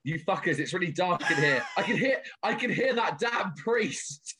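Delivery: put-on a half-hearted Irish accent, laughing through it; bad Irish accent. Retelling a dead man's recording from the casket in a laughing, half-hearted Irish accent. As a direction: attempt an Irish accent and crack up by the end. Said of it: "I can't do the accent".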